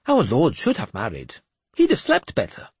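a cracked holy man delivering God's message; mad bishop voice. Acted. Jeremias jokes on.

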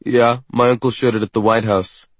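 mouth full. A narrator's reading. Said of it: "says through a mouthful of food".

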